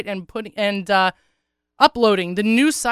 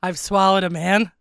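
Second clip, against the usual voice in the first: smoker's rasp; husky rough voice; hoarse voice; 3 dB louder than usual. Real, not acted. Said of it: "you could lay off the cigarettes".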